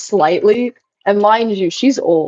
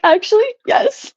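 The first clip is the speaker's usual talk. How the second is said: sassy agreement; 13 semitones higher than usual. Retold or imitated. Retold answer to grandma.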